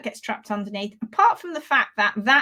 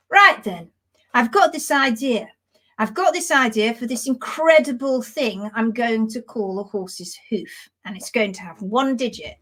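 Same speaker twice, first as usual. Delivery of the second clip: Mother Nature. Acted. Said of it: "she's saying".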